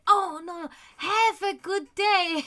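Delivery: high, laughing fix of the phrase; laughing self-correction. Retold or imitated. Coworker correcting herself to the guests, laughing. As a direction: catch the mistake and laugh it off. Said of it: "she's like".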